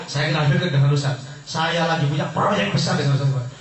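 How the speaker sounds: enthusiastic. Shown as a demonstration. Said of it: "Ngomongnya antusias gitu".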